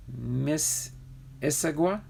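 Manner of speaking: "Miss ... Issaquah?" in two parts, rising like a question; sounding out "Miss Issaquah" with a questioning lift; broken-down pronunciation. Shown as a demonstration. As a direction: tentatively split "Miss" from "Issaquah", ending upward. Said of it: "you gotta break it down".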